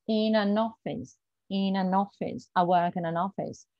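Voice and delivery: "in an office" said smoothly run together; linked in an office. Shown as a demonstration. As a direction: flow through it like a native. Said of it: "a part of its melody".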